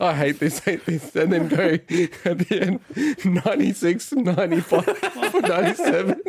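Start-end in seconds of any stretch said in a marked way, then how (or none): 0.0-1.1 laughing mock complaint. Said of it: "a supercut of all the criticisms". 2.2-6.2 giggling through the numbers; laughing while listing scores; laughing mock scores.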